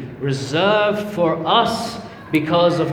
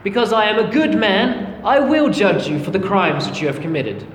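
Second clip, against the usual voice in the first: stern judge; 4 semitones higher than usual. Retold or imitated. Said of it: "and say".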